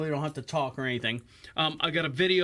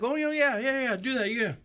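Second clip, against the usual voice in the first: eager realtor voice; 7 semitones higher than usual. Retold or imitated. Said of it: "She's like".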